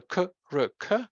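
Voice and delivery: "K, R, K" spoken as three separate consonants; sound by sound. Shown as a demonstration. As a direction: break Krk into "K, R, K", one sound at a time. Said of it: "there is no vowel in this syllable".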